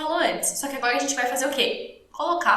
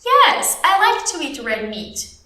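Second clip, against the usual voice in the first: slow model answer; 4 dB louder, much slower than usual. Shown as a demonstration. (resposta lenta, com "Yes" alto e agudo)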